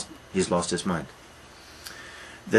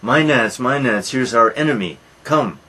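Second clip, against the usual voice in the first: god summoning the Maenads, louder; calling out; 3 semitones higher, 5 dB louder than usual. Retold or imitated. Dionysus calls the frenzied women to attack, loud call. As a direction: call them to the kill, raised voice. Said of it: "he calls to the Maenads".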